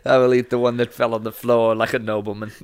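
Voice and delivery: put-on a light posh British accent; mild mock British aristocrat accent; British nobleman voice. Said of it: "Why did his voice change?".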